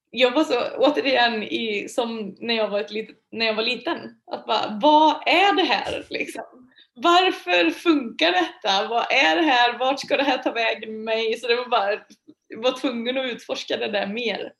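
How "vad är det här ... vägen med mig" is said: higher, louder bewildered questions; half-laughing disbelief at the strangeness; mock bewildered what is this; baffled wondering. Retold confused inner reaction.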